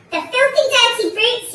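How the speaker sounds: loud, high indignation; angry yell. A narrator's reading. Mister Twit cursing the birds, angry yell. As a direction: yell it in outrage. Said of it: "yelled Mister Twit".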